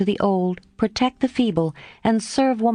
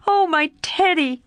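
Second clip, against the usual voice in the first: joyful repeat; 9 semitones higher than usual. A narrator's reading. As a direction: echo the name, still delighted. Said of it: "crying joyfully".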